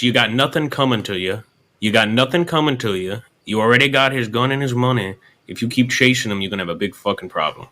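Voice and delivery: lightly put-on Italian mobster accent; a hint of Italian mobster menace. Shown as a demonstration. Coaching a fella from Kentucky, lightly voiced Italian mobster. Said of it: "mobster style there".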